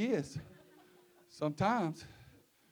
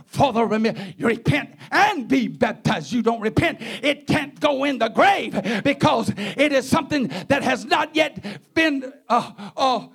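urgent, driving exhortation; forceful preaching; 4 semitones higher, 4 dB louder than usual. Real, not acted. Preacher urging the congregation to repent, emphatic raised sermon voice. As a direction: press each phrase on the congregation.

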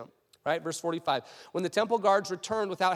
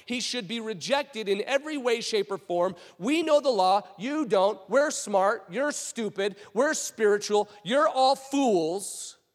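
emphatic denunciation building to louder, punched insults; pompous Pharisee spokesman; 4 semitones higher, 4 dB louder than usual. Acted. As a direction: proclaim your superiority over the fools. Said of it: "the speaker of the Pharisees is saying".

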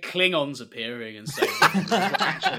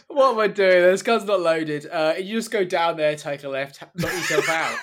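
put-on flustered old man; 3 semitones higher, 8 dB louder than usual. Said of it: "he's like".

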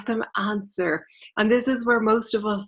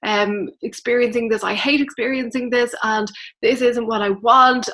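mock complaining; 2 semitones higher, 3 dB louder than usual. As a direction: complain to the angels like a fed-up friend. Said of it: "they're complaining".

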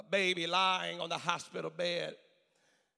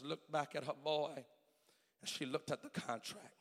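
hushed, grave storytelling; 2 semitones lower, 5 dB quieter than usual. Retold or imitated. Preacher recounts mother signing away life support, hushed and grave. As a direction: drop the voice and let the pauses hang.

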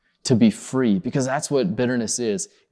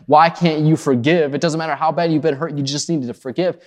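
mock frustration; 4 semitones higher, 4 dB louder than usual. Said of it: "looking down on you with frustration and saying".

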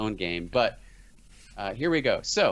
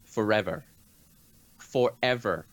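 stretched movie quote; slower than usual. Acted. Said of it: "here's one".

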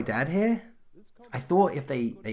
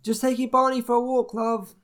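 calling out; 10 semitones higher, 4 dB louder than usual. Acted. Calling out to wife indoors.

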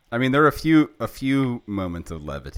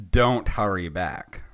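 Willie; 6 dB louder, slower than usual. Retold or imitated. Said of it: "Willie said".

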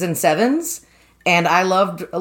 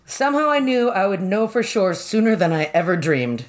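ominous reading. Shown as a demonstration. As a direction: read it like a dark omen. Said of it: "can you say that again".

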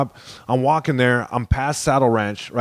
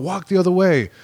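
higher bully command, imitated; mock tough, turned up; 6 semitones higher than usual. Bully performing for passing girls, mock tough turned up. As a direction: order him off, showing off as the bully. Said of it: "turns it up even more to look tough".

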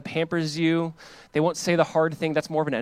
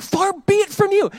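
high, slow mock-dismissive reply; dismissive Jonathan; 5 dB louder, slower than usual. Jonathan brushing off David's fear, high and slow. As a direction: wave off the worry in a high, drawn-out voice.

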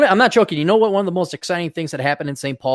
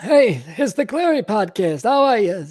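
higher, slowed comic Jewish accent, hammed up for laughs; 7 semitones higher than usual. Podcast host jokingly greets listeners in a hammed-up Jewish accent. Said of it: "I should do my Jewish accent".

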